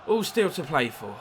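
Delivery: fast and breathless commentary; out of breath. Real, not acted. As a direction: talk as if winded. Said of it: "I'm out of breath".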